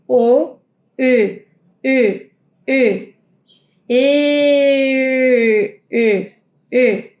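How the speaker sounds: "O" and then "E" said with a round O mouth; German ö; ö drill. Shown as a demonstration. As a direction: move from o to ö. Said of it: "boca de O y pronunciamos la E".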